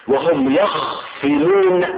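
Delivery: يخصمون with a still kha and single s: yakhsimun; slow, stretched وهم يخصمون as "wa-hum yakhsimun"; variant reading. Shown as a demonstration. Teacher showing the reading derived from khasama, slow "yakhsimun". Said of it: "يخصمون من خصمه إذا جادله".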